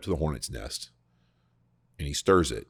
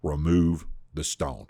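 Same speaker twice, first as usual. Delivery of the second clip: command; slower than usual. Retold or imitated. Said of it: "it's a command".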